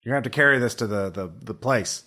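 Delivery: put-on gruff old junkyard man offering help; old prospector. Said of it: "I love it when our contact's an old prospector".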